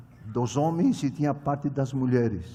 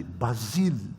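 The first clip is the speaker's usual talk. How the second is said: soft remark; 4 semitones lower, slower than usual. Retold or imitated. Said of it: "ela dizia assim".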